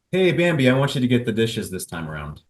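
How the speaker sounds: loud call of Hey Bambi, then steady request; pretend request to wife. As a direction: call her name out, then ask plainly. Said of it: "So say".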